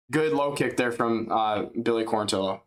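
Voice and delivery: slowed, chuckling call; laughing. Real, not acted. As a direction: repeat it through a laugh. Repeats call after laughing.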